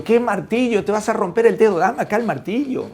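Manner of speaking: alarmed, impatient telling-off; exasperated father. Acted. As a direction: play a dad snapping at his child. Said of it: "Y el papá le dice".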